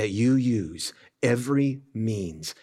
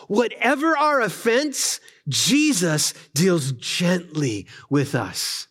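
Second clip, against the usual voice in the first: quoted reading; 8 semitones higher than usual. Acted. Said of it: "Ortlund goes on".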